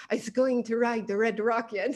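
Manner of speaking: badly faked French accent. Imitating Nico for the hosts, amateur French accent. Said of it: "but in a French accent, like".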